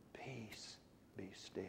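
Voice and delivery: a bare whisper; very soft. Shown as a demonstration. Preacher demonstrating pianissimo as a whisper. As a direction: whisper it, almost nothing. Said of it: "Soft and very soft".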